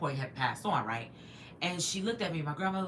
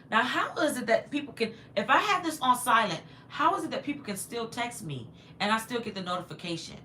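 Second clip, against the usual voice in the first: louder, higher-pitched exasperated complaint; irritated; 6 semitones higher, 4 dB louder than usual. Real, not acted. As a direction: grumble loudly at an interruption. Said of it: "That's irritating".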